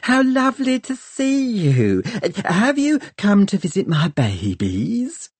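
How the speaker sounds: high, fluttery gushing voice; gushing scientist voice. Acted. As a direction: coo it like a doting mother. Twix gushing, high put-on voice.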